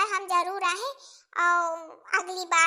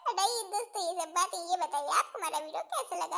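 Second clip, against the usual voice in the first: laughing; 2 semitones lower, faster than usual. Real, not acted. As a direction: repeat हटाइए दोस्तों while laughing.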